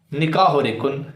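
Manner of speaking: "نکاح رکن" quoted as the opponent misread it; imitated misreading. Quoting opponent's slip to the audience, imitated misreading. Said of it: "لیکن اس بندے نے کیا کہا".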